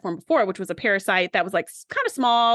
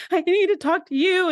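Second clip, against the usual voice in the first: urgent plea; 8 semitones higher than usual. Retold or imitated. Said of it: "she's like".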